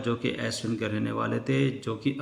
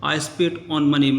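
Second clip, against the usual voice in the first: louder, mildly shouted scorn; narrated shouting; 3 semitones higher, 6 dB louder, much slower than usual. A narrator's reading. Uncle answering the farmer about money, mild shout. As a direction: raise the voice to dismiss it. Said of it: "फिर से चिल्लाते हुए कहा".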